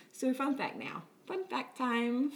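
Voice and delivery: slow, drawn-out segment intro; announcer voice. Acted. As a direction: announce it slowly, a touch hammy. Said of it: "it's even highlighted".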